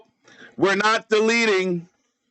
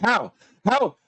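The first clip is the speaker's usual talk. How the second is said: exasperated disbelief; 3 semitones higher than usual. Pretend. Mock disbelief at rival's calm.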